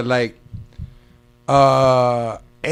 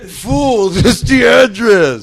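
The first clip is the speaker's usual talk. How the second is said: loud, high mock yell of frustration; retold irritated shout; 7 semitones higher, 8 dB louder, much slower than usual. Friend yelling at late guest, mock angry shout. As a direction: snap it out like an annoyed friend.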